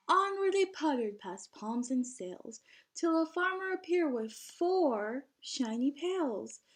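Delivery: lively, sing-song storybook reading; bouncy picture-book narration; reading to children. A narrator's reading. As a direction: read the rhyme out to a class of kids.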